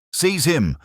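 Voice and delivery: high, forceful command; roared. A narrator's reading. Inspector ordering his men to seize the assassin, roared. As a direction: cry it out, pitch leaping far up. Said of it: "roared Fournier".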